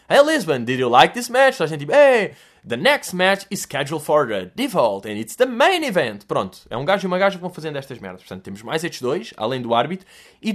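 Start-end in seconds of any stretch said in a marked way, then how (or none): 0.1-1.6 wrestling presenter. Retold or imitated. Presenter hyping the Lisbon wrestling crowd, loud MC voice. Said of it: "dizem tipo". 1.9-6.2 slow, drawn-out announcer, rising at the end; ring announcer. Retold or imitated. Presenter announcing the next match, slow hype voice. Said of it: "dizem tipo".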